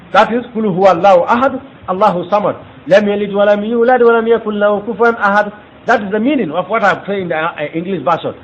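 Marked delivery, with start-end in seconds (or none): 0.5-5.5 Quran recitation. Shown as a demonstration.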